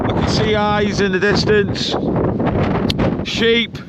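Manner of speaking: shivering in freezing wind; out of breath in the cold; cold and breathless. Real, not acted. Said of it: "the wind's getting my breath".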